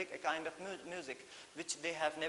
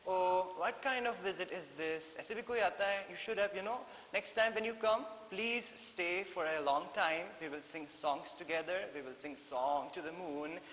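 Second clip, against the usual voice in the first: fond dolphin scold; 3 semitones higher than usual. Acted. Dolphin voiced scolding fondly.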